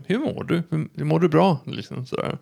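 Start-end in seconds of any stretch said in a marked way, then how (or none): 0.0-0.6 higher-pitched, caring "Hur mår du?"; undrar verkligen. Retold or imitated. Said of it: "de undrar verkligen liksom". 0.7-1.6 imitating a concerned colleague, slightly higher; gently probing, as if really wondering; undrar verkligen. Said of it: "de undrar verkligen liksom".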